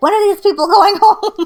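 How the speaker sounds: piercing, very loud, high, shrill holler. Retelling how mom yelled down the basement stairs: imitating mom yelling. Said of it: "yell from the top of the basement stairs".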